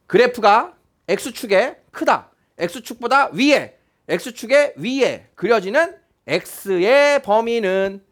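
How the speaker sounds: slow, phrase by phrase with pauses; deliberate reading-out. Shown as a demonstration. Teacher translating an inequality into graph language, slow and deliberate. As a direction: spell it out slowly, piece by piece.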